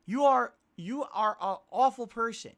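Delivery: loud mock-scolding with laughs breaking through. Real, not acted. Streamer scolding a viewer loudly while laughing. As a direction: give the tipper a big laughing telling-off.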